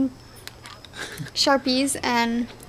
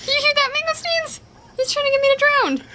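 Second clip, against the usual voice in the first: high, cooing pet talk; 13 semitones higher than usual. Real, not acted. Talking to pet.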